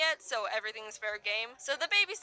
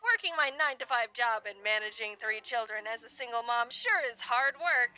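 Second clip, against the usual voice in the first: tired single mom. Retold or imitated. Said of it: "point of view of this lady".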